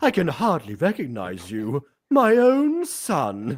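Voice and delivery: exaggerated, over-the-top British accent with swooping pitch. Voicing a parent after being asked to make him british: super british accent. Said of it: "make him super British".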